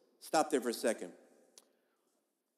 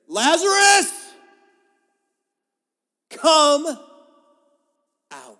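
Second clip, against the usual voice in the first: huge, much higher and louder shout, drawn out slowly; loud yell; 13 semitones higher, 16 dB louder, slower than usual. Retold or imitated. Pastor acting Jesus calling Lazarus from the tomb, full yell. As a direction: bellow it to wake the dead. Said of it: "he yelled with a loud yell".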